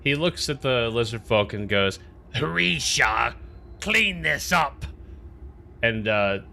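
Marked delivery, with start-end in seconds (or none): 2.4-4.9 high, drawn-out put-on voice; mimicked order. Tumbleweed looks at the lizardfolk, mimicking an order to clean up. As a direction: order them about in a raised, mimicking voice.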